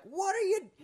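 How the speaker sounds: very high mock holler; imitated heckler. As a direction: call out in shrieky disbelief. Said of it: "he just kinda went like".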